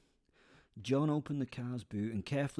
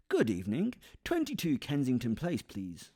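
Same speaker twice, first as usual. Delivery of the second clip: loud, bold greeting from the back seat; cheeky taxi order; 3 semitones higher, 5 dB louder than usual. Retold or imitated. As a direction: announce the address like hailing a cab. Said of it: "said the shadow in the back seat".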